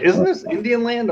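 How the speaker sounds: high, slow disbelieving ask; mock-baffled, drawn out with a big lift; incredulous question. Retelling his reaction at the masked-up drag strip, high and slow disbelief. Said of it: "I was like".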